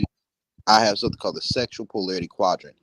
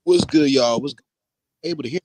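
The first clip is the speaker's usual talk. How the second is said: choppy bad connection; breaking up; 4 semitones higher, 4 dB louder than usual. Real, not acted. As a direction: voice cutting in and out over Bluetooth. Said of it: "it sounds like you're breaking up a little bit".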